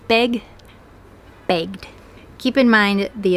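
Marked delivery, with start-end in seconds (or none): 1.5-1.9 "begged" as one syllable ending in d. Shown as a demonstration. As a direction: close "begged" on a voiced gd. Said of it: "pronounced with D".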